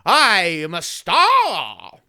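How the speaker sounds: slow, grand mock reading voice; milk it like a star performer; hammed-up proud reader. Kid reads aloud in class, slow grand mock reading. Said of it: "and I would say".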